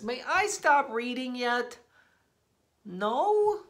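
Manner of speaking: high, pleading mock whine; high begging. Reader begging the kid to stop, high whine. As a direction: whine to be let off.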